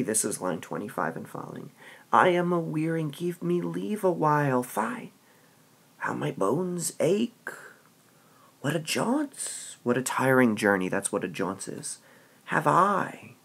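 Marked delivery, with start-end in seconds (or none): 2.1-13.3 weary nurse. Acted. Teacher voices the nurse complaining of her aching bones. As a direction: sigh through the aches.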